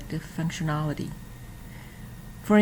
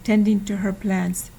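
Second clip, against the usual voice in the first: storybook reading. Acted. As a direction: read it aloud like a picture book for children. Reading a children's book aloud.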